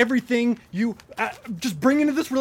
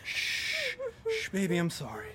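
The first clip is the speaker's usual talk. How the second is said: soothing. Acted. Husband soothing crying wife.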